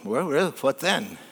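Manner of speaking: soft, understated deadpan question; unimpressed. Retold or imitated. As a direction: deflate the big promise quietly. Unimpressed fisherman answers climax.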